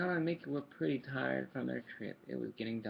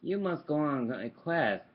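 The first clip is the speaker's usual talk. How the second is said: ghost voice; 8 dB louder, slower than usual. Acted. Ghost commands.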